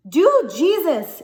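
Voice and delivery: high, wild cry to Jesus; wild scream. A narrator's reading. Willie Mae crying out to Jesus at the gunshot, high and wild. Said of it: "she screamed, her voice high and wild".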